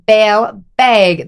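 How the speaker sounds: put-on drawn-out Fargo-accented "bag". Retelling how she repeats it when misheard, Fargo accent. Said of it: "You're saying bag weird".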